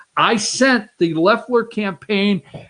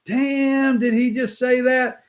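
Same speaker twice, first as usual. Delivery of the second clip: drawn-out higher damn of disbelief; mock-shocked exclamation; taken-aback reaction; 3 semitones higher, slower than usual. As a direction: react as if stunned by what was said. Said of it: "I had to say".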